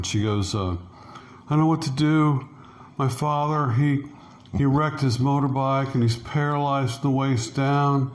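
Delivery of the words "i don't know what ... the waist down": retold crying. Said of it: "she starts crying".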